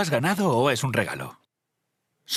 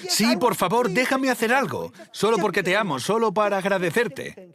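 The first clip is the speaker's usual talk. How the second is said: much higher, urgent begging; earnest pleading; 6 semitones higher than usual. Retold or imitated. Begging the benefactor to accept service, high earnest plea. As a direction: beg him to let you help.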